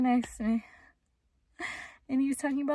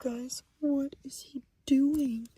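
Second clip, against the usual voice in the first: alarmed whisper; 8 dB quieter than usual. Real, not acted. Camper secretly watching the man next to her, alarmed whisper. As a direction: whisper to viewers without being overheard.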